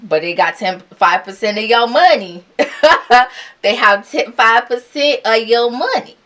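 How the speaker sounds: loud, high, amused exclamation; laughing comic warning. Real, not acted. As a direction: hammer it home through laughter. Jokes that builder holds your money.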